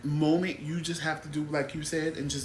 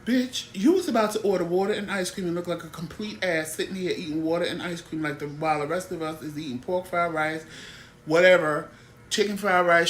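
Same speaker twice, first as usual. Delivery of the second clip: imagined outburst. Retold or imitated. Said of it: "that was my reaction in my head".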